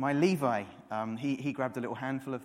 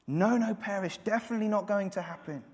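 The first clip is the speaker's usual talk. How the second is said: higher, louder, hammering every no; preacher thundering the promise; emphatic preaching shout; 6 semitones higher, 8 dB louder than usual. Acted. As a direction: drive the double no home with full force. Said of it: "He says".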